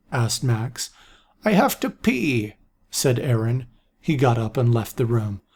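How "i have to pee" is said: foretell it gravely; old seer voice. A narrator's reading. Aaron voiced in story.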